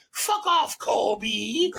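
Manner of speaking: high-pitched, scornful send-off; mock a furious restaurant lady dismissing a customer; imitated angry lady. Retells restaurant lady's insult during quarrel.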